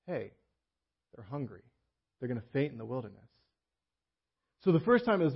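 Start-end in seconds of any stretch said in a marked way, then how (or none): 0.1-3.3 compassionate Jesus. Retold or imitated. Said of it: "It's Jesus says".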